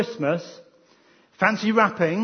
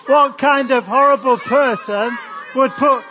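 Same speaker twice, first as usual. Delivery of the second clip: hammed-up disgust; 5 semitones higher, 5 dB louder than usual. Mock disgust at tin's contents.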